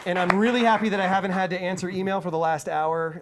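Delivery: breathless after hyping the crowd; out of breath. Real, not acted. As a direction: speak while catching your breath. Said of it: "I'm out of breath".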